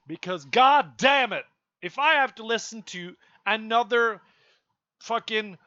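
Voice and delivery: blowing up in frustration; exasperated outburst. Real, not acted. Ranting vlogger to viewers, exasperated outburst. Ranting about lifestyle gurus.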